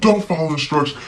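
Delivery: high put-on scolding mom voice; mocking the mom. Nanny mimicking the mom scolding, high mock voice. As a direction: mimic her nagging in a high squeak. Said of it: "She's like".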